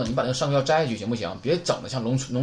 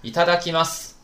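higher teacher model; model reading; 5 semitones higher than usual. Shown as a demonstration. Teacher models the mealtime phrase. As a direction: say it as before a meal. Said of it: "表示我吃了".

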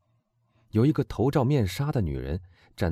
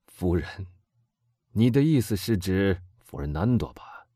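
bitter irony. Acted. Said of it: "以苦涩讥讽的口气回答".

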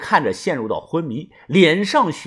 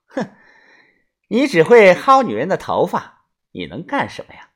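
讥讽. Acted. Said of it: "讥讽地说道".

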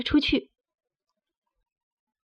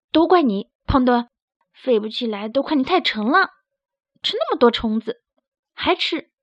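complaining. Acted. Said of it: "大嗓门儿抱怨道".

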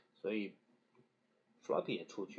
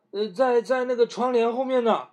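spooky pretend fright; 9 semitones higher, 7 dB louder than usual. A narrator's reading. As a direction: make the monster sound creepy. Child claims monster hidden.

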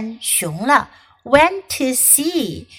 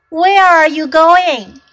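Deer voice; 5 semitones higher, 7 dB louder than usual. Acted. Deer voiced in read story.

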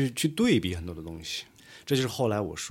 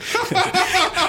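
loud burst of laughter; 5 dB louder than usual. Real, not acted. Laughing at own impression.

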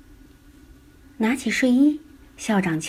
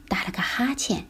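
yawning; 3 semitones higher, 6 dB quieter than usual. A narrator's reading. Boy yawning while dressing.

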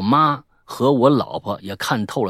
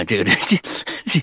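ordinary talk, nothing marked

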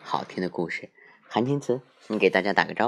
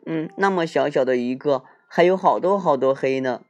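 little bear voice; 5 semitones higher, 4 dB louder than usual. Acted.

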